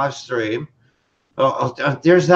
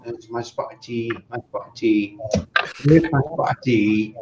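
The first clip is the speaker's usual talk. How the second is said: mock posh English; 5 semitones lower than usual. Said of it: "with your pinky out going".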